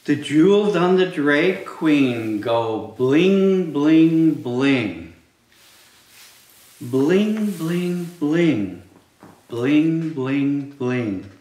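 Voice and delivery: loud, punchy storytime read; reading to children. Acted. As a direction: belt each bling out. Reading picture book aloud to kids.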